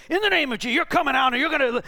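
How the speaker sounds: high, loud rebuke of a demon; commanding shout. Retold or imitated. Pastor rebuking the demon in deliverance, loud commanding shout. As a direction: bellow the command to cast it out. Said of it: "I go on the offensive".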